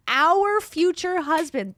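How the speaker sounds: slow, drawn-out mocking read of the caption; mocking quote. Streamer mocking a couple's caption, drawn out and sarcastic. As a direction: sneer at the caption while reading it to chat.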